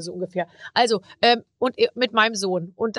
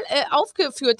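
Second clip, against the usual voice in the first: ordinary talk, nothing marked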